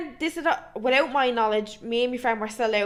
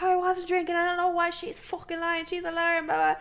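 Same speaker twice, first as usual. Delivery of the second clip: mock sobbing; 7 semitones higher than usual. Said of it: "I was sobbing".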